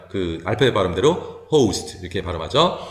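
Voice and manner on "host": "host" with a gliding "oh-oo"; alphabet-name O. Shown as a demonstration. Teacher demonstrating letter sounds, "host" with long gliding O. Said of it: "오우 발음이에요".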